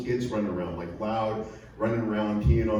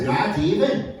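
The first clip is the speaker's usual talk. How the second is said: higher, louder put-on Indigenous accent; 7 semitones higher, 3 dB louder, slower than usual. Shown as a demonstration. Comic teaching the audience his second slang phrase, Indigenous accent. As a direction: show off an exaggerated Indigenous accent. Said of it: "with that fucked up accent".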